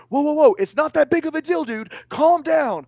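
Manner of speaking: high, loud placating whoa; hammed-up calm down; mock calming. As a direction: hands up, talk him down. Speaker calming trainee in story.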